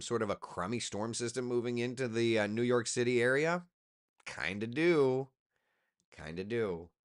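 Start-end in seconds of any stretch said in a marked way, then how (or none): 4.3-5.3 slow, teasing, a bit louder; playful drawn-out answer. Pretend. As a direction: savour the words, slowly. Answers own question playfully.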